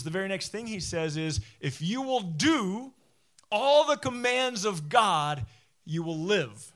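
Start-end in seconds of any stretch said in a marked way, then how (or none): 1.6-6.7 high, loud, drawn-out promise; emphatic proclamation. Retold or imitated. Preacher quoting Moses's promise to the obedient, emphatic proclamation. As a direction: proclaim it slowly and powerfully, settling on the last words.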